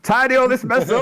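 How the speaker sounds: squeaky high joking voice; high silly voice. Acted. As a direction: play it as a giddy cartoon.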